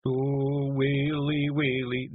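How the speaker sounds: Woolly starting his lament again, muffled; wail cut short. A narrator's reading. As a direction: begin the wail and get cut off. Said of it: "Daft Woolly began".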